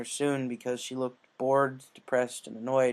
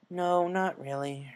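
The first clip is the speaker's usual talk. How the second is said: glum; 5 semitones higher, much slower than usual. Acted. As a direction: sigh it out tiredly. Rainbow voiced, slow.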